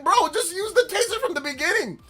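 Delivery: high laughing exasperation; laughing plea. Retold or imitated. Streamer to the cop, high laughing exasperation. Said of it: "And I'm like".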